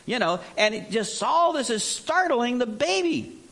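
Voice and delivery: put-on a startled baby grumbling about the bright world; complaining newborn.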